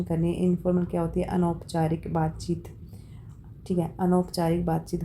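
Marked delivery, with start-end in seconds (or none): 4.0-5.0 whispered repeat. Shown as a demonstration. Teacher repeating the term to students, whispered. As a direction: say अनौपचारिक बातचीत again in a breathy whisper, no voice.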